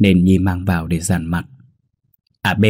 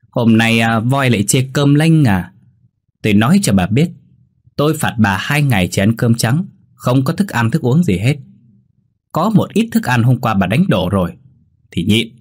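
sneering scolding with a slightly lifted pitch; pouting taunt; 3 semitones higher than usual. Acted. Daughter-in-law berating the old woman over uneaten rice, scornful scolding. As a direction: berate her through a pout. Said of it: "Nhi lại bĩu môi nhiếc móc".

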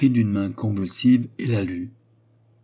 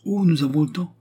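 put-on high, louder sneering old widow; 8 semitones higher, 5 dB louder than usual. A narrator's reading. Widow Pipard stalls impatient Léon, high sneering voice. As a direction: snicker it, in no hurry at all. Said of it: "ricana la veuve Pipard".

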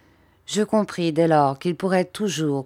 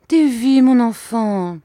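put-on high, louder appeal to a child; mother's appeal; 7 semitones higher, 6 dB louder, slower than usual. A narrator's reading. Mother reaching for her tearful son, high appeal. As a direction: call to your child, pitch raised.

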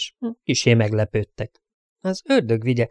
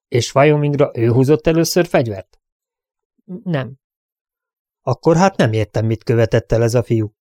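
a lawman pressing for a straight answer, a touch raised; stern sheriff questioning; 3 semitones higher than usual. Acted. Sheriff grilling the crowd about who drew first, stern. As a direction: demand the truth like a sheriff at a hearing.

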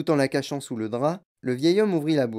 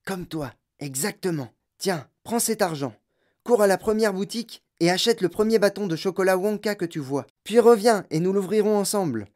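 put-on higher old man's voice, eager and secretive; an old grandfather plotting with his grandson; old grandpa Joe; 6 semitones higher than usual. (voix de vieux grand-père complice)

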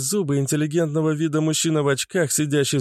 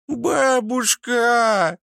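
put-on wailing children; 6 semitones higher, much slower than usual. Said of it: "зарыдали в голос дети".

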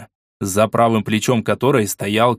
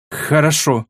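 higher, cold clipped agreement; icy tone; 4 semitones higher, slower than usual. Acted. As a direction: freeze the word out. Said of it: "ответила королева ледяным тоном".

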